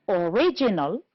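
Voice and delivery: original with RIG stressed; stress on second syllable. Shown as a demonstration. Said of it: "two syllables before".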